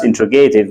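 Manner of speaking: "interrogative" as in-tro-GAY-tiv; common mispronunciation. Retold or imitated. Teacher quoting how people sometimes say it, "interrogative" as in-tro-GAY-tiv. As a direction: say "interrogative" with a long stressed GAY. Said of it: "I hear that people pronounce".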